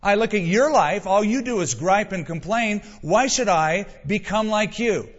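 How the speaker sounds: mildly indignant, acted challenge; scornful unbeliever. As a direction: push back as an unimpressed onlooker.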